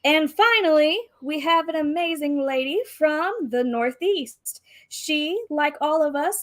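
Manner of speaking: lightly rounded pageant host voice. Acted. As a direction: introduce like a pageant emcee. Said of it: "in her best M C voice".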